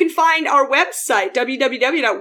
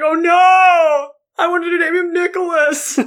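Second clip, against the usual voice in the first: mock lament; 4 semitones higher than usual. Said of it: "His dad's like".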